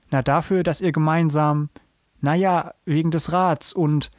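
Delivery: faltering thanks with short pauses; hesitant. A narrator's reading. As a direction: grope for the words and leave it hanging. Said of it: "machte eine kurze Pause".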